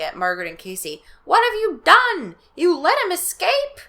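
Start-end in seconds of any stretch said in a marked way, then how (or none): 1.2-3.8 high, loud, slow shout; furious accusation. Acted. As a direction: hurl the blame at the kids. Brewer accusing kids.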